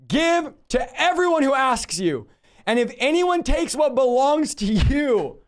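slow, incredulous reread, trying not to laugh; barely straight-faced reading. Shown as a demonstration. Preacher rereading the verse to the congregation, barely keeping a straight face. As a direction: read it as if you can't believe the words. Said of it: "I can't even read this with a straight face".

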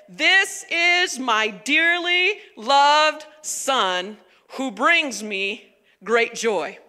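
slow, measured scripture reading; deliberate voice from heaven, lightly performed; solemn proclamation. A narrator's reading. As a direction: proclaim it slowly, word by word. Reading God's announcement from scripture.

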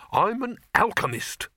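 high, slow, faintly huffy alchemist; slightly mollified. A narrator's reading. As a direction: say it high and slowly, only slightly appeased. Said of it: "only slightly mollified".

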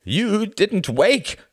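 slow, high, loud accusation; angry demand. A narrator's reading. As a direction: demand it in raw disbelief. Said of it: "demanded Klaus".

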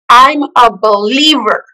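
slow, weighty, powerful; powerful declaration. Retold or imitated. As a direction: declare it with force. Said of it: "said it with so much power".

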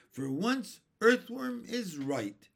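high, loud exclamation; excited cry. A narrator's reading. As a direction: call it out in amazed agreement. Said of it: "cried the centipede".

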